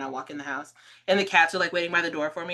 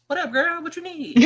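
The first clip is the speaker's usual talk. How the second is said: high, louder, casual greeting to a pal; off-duty friend voice; 10 semitones higher, 6 dB louder than usual. Retold or imitated. Friend calls from the other store, loose buddy greeting. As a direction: drop the formality and holler to your friend. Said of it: "Jana is totally different".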